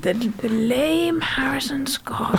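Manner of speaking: hushed, very slow nature-documentary narrator; slow, quiet wildlife commentary impression; David Attenborough. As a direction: narrate softly, drawing out every word. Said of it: "David Attenborough".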